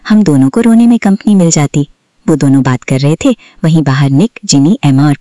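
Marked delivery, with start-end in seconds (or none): 0.1-1.9 innocent. A narrator's reading. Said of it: "मासूमियत से बोली".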